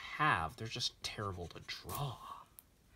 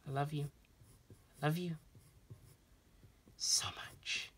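affectionate; 6 semitones higher than usual. Real, not acted. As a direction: coo it lovingly, ending in a whisper. Addressing girlfriend who started watching.

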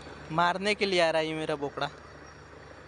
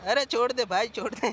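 loud laughing plea; pleading shout; 5 semitones higher, 4 dB louder than usual. Real, not acted. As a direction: call out to let go. Goat pushing him with horns.

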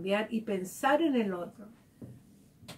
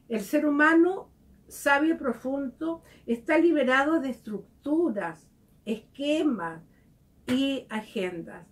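reading scripture; 3 semitones higher, 4 dB louder than usual. Acted. Reading from the book.

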